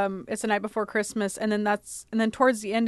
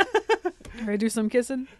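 laughing. Retold or imitated. Repeating the quote laughing.

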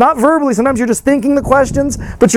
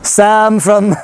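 press secretary voice; slower than usual. Pretend. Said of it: "why do you talk like that".

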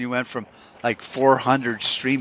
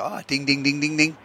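ding ding realization. Retold or imitated. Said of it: "that light will go off in your head and go".

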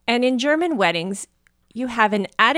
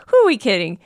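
retold song ending; 6 semitones higher, 6 dB louder than usual. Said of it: "he ended the song with".

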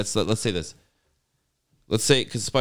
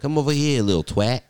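higher British demon beckoning; mock British accent; 5 semitones higher, 3 dB louder than usual. Friend guessing the demon's accent, mock British. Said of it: "I can't remember the accent style".

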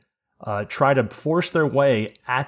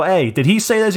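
raised, higher calling-out voice; retold yell across; 8 semitones higher, 6 dB louder than usual. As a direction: re-enact calling across to a witness. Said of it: "And I yell across".

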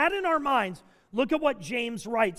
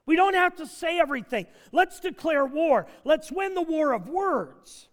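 higher, driven sermon voice; emphatic preaching; 4 semitones higher, 3 dB louder than usual. Real, not acted. Pastor drawing the lesson from the snake story, emphatic preaching. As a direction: press the point home from the pulpit.

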